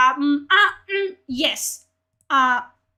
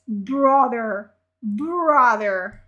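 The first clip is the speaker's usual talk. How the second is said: exasperated; 2 semitones lower, 5 dB louder, much slower than usual. Real, not acted. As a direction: groan the word out in disbelief. Exasperated at what was read.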